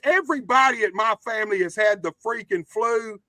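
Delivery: hoarse, cracking voice from the flu. Real, not acted. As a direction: voice breaking after being sick. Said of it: "That's why my voice keeps cracking".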